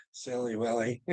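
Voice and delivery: soft tease. Real, not acted. Teasing Willard, low and soft.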